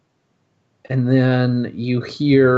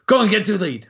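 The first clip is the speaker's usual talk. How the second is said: put-on higher, laughing through the quote, no accent; laughing try at a voice; 8 semitones higher, faster than usual. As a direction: break up laughing mid-line. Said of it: "well, I can't do his accent".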